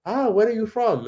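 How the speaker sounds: high, eager put-on voice for the stranger; mock eager stranger. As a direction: play him keen and curious. Voicing curious shop guy.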